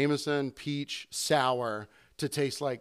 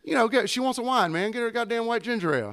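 higher, fast, pushy imitation of the customer; impatient country guy; 9 semitones higher than usual. Customer insisting to the bartender, higher and pushy. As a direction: rush it like a guy showing off to his date. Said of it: "He goes".

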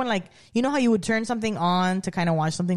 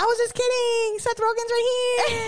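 excited reveal; 13 semitones higher, slower than usual. Retold or imitated. Retelling Billy revealing Seth to the woman, gleeful. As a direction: announce the surprise with glee. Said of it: "And he's like".

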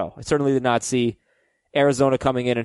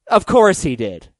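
exasperated eye-roll; 2 semitones higher, 5 dB louder than usual. Shown as a demonstration. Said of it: "when you say it".

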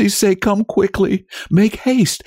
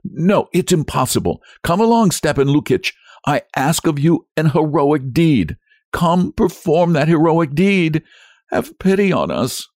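high, urgent entreaty; frantic wife begging for help; desperate pleading; 9 semitones higher than usual. A narrator's reading. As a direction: argue frantically, voice pitched right up.

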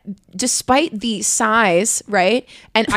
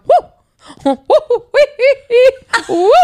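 mock cheering; 12 semitones higher, 5 dB louder than usual. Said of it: "I remember him going".

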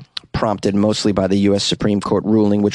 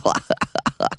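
nerdy giggle; 4 dB quieter than usual. Retold or imitated. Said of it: "an impression of a nerd".

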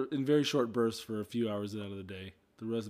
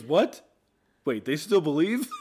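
loud surprised; 5 semitones higher, 7 dB louder, slower than usual. Retold or imitated. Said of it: "He goes".

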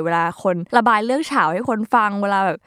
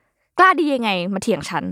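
scolding parent. Pretend. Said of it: "พ่อแม่ก็จะพูดว่า".

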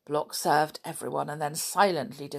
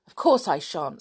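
mildly indignant retort; a touch of indignation; 5 dB louder than usual. Acted. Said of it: "said Anne indignantly".

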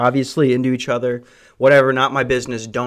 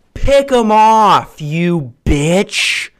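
mock angry snap; 3 semitones higher, 3 dB louder, much slower than usual. Snapping at picky customer.

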